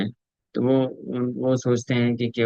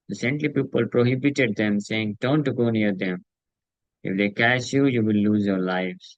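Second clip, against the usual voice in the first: measured, very slow reading of the translation; solemn scripture translation; much slower than usual. Acted. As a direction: read each word deliberately to the listeners. Reads English translation slowly.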